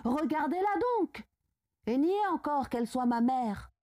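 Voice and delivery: mildly heated, demanding confrontation; indignant challenge. A narrator's reading. Son challenges his father to look at her, indignant outburst.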